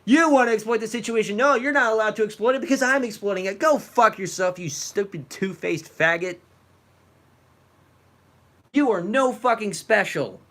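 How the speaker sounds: a heated, seething rant; angry. Real, not acted. Streamer ranting back at the video creator, seething. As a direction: spit it out at him, barely holding it together. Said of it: "I can't even speak when I'm so angry".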